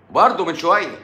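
high-pitched exclamation on "برضه من شوية"; exclaimed. Real, not acted. Reacting to what was just said, exclaimed high. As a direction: burst out with it, pitch up. Exclaims, then repeats it low.

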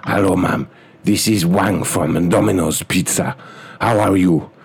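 clipped broken English, hammed-up Chinese accent; mock Chinese accent. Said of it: "as an Asian guy".

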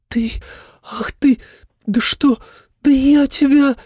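put-on high, sputtering outrage of a young woman; splutter, lost for words; flustered sputtering girl. A narrator's reading. (возмущённо, запинаясь, высоким голосом)

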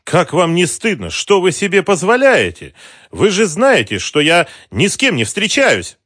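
high, loud mock-offended virtue; feigned outrage. A narrator's reading. Mara to the thugs, putting on offended virtue. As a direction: play the insulted innocent. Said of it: "изображая оскорблённую добродетель".

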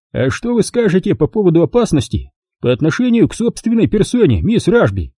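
sly. A narrator's reading. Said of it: "лукаво спросил Робби".

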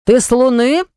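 husband thundering in disbelief. A narrator's reading. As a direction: boom it out at her. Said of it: "прогремел он".

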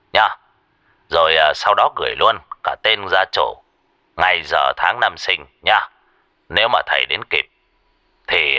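put-on calm instructions from an old teacher; lightly voiced master.

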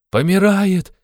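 high, loud cry; shout from crowd. A narrator's reading. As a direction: call out in alarm. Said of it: "закричал кто-то". (высокий громкий выкрик)

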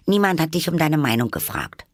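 put-on high, cross girl's retort; indignant snub. A narrator's reading. Alice puts the Hatter down, high and indignant.

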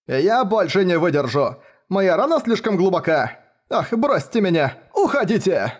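high, pleading moan of a wounded man; moaning in pain. A narrator's reading. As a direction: groan it out, begging them to leave. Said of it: "стонал Марч Бэнкс". (стонет от боли, умоляя)

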